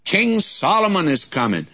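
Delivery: heralds calling out. Retold or imitated. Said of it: "the cries passed along".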